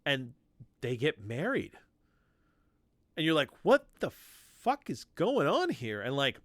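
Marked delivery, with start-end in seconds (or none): 3.6-6.0 high, loud mock disbelief; incredulous outburst. Reader baffled by the comic's marriage challenge, high loud disbelief. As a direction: throw up your hands at the absurd twist.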